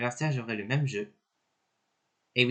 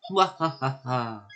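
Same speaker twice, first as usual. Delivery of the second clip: evil laugh; much slower than usual. Acted. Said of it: "je fais les voix des personnages".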